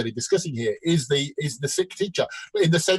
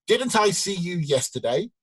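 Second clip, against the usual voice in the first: slow punchline; 3 semitones higher, slower than usual. Acted. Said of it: "the doctor said".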